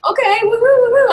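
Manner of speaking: high, loud imitated woohoo of the guest; imitated cheering. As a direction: play the guest cheering on cue. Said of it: "And then she'll go".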